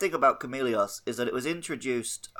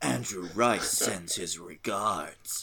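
put-on American accent, low, very slow, drawn out; 4 semitones lower, 4 dB quieter than usual. Speaker imagining booting the door down: put-on American accent.

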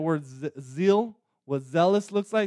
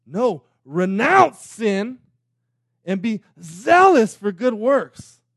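loud yelling with raised voice; 4 semitones higher, 8 dB louder than usual. Speaker recalls a moment while driving in their car, retelling own yell. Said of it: "I literally yelled like".

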